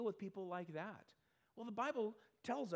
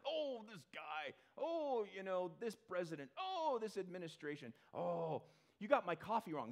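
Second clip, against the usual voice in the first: grouchy complainer; 2 semitones higher than usual. Retold or imitated. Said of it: "flinging off the handle all the time".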